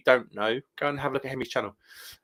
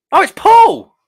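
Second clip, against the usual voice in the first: surprised; 14 dB louder, slower than usual. Real, not acted. Friends appear on video call.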